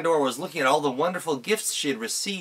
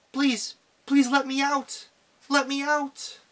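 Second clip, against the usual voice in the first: tiny, very high squeaking voice; 12 semitones higher than usual. Reading a story where a voice pleads from inside Pandora's box, tiny squeaking voice. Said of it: "She heard a tiny squeaking voice say".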